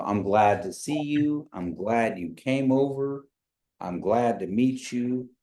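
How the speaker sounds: slow, falling statement tune. Shown as a demonstration. Teacher demos a greeting as a statement. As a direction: say it flat as a statement, not asking. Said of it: "these are, they're not said like questions".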